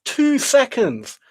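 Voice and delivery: high, loud and slow, drawn out in disbelief; exasperated groan. Real, not acted. Trader groaning at the screen over a missed move, drawn-out exasperation. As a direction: stretch it out like you can't believe it.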